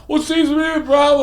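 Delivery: high, put-on radio voice; mock pilot over the radio; radio voice from the movie. Hosts acting out the radio call, in a high, put-on voice. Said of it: "And they're radioing Hal".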